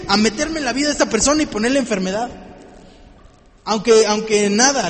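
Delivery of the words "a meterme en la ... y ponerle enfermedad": raised, louder mock Satan demanding his right; Satan voiced demanding rights; Satan pleading. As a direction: play the accuser pressing his claim to God. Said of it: "llega Satanás y dice".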